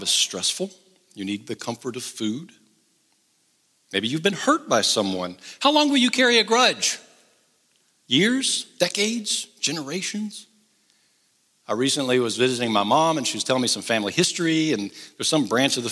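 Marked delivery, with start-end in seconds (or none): 5.6-10.5 preaching call. Real, not acted. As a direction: press the question hard from the pulpit. Preacher presses the congregation.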